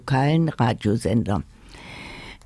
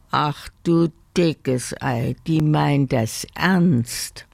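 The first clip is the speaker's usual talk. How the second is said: mild dismay; slower than usual. Acted. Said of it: "dachte Willi entsetzt".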